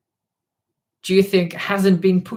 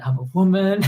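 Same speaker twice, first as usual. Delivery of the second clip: imitating interviewee; 3 semitones higher, 3 dB louder than usual. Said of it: "That's the first thing she said".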